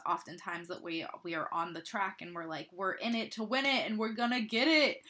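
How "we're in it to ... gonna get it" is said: louder, gung-ho quoting; pumped-up self-quote. Retold or imitated. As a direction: hype yourself up, tongue in cheek.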